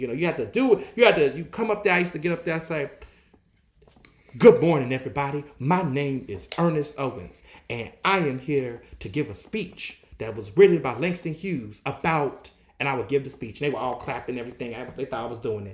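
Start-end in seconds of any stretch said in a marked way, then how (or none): 4.4-12.5 slow, church sermon style oratory. Retelling how they opened a childhood church speech: imitating sermon-style delivery. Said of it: "everything was always in this type of sermon way".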